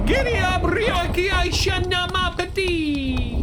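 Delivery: high, loud, drawn-out call; loud shout. Acted. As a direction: yell it to get the horse moving. Calling out to a horse.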